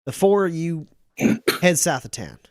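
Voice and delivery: a hint of a firm sheriff giving orders; brisk sheriff sending them off; lightly voiced sheriff.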